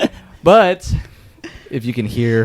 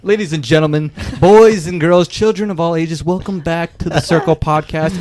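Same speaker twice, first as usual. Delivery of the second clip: ringmaster; 4 semitones higher than usual. Pretend. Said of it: "I've been working on this".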